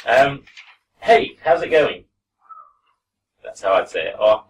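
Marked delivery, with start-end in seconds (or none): 1.0-2.0 "Hey, how's it going?" with it and going run together; teacher's own accent. Shown as a demonstration. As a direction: model sentence, words linked. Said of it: "this is how I'd say this sentence".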